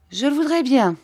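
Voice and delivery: mother answering Rosa with a smile. A narrator's reading. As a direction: smile through a gentle wish. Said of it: "en souriant".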